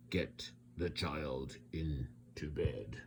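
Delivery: soft, breathy whispered gurgle; a small monster gurgling shyly; gurgled. A narrator's reading. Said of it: "and gurgled".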